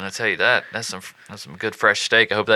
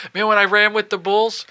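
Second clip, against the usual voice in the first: bragging guy; 9 semitones higher than usual. Retold or imitated. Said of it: "he's telling everybody".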